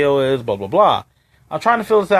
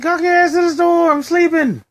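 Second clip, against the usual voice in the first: much higher mock voice of a grouchy neighbor; pitched-up imitation of a grumpy half-asleep neighbor; grumpy sleepy neighbor; 13 semitones higher than usual. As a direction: play the annoyed sleeper shooing him off.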